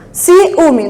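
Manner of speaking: "Ciúme" as "ci... úme"; split hiatus. Shown as a demonstration. Teacher shows hiatus example, "Ciúme" split in two. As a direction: separate the "i" and "ú" of "Ciúme".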